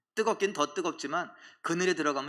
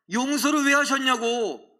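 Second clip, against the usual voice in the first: mock outrage, high and drawn out; lightly hammed-up indignant complaint; retold angry protest; 6 semitones higher, 4 dB louder, slower than usual. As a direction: protest slowly, stretching each demand. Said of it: "화를 냅니다".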